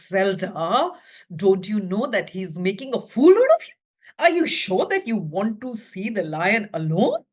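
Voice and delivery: doctor warning. Acted. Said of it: "he says".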